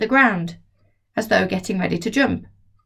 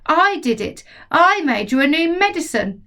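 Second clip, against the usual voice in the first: put-on boy voice; 8 semitones higher than usual. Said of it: "George answers Grandma".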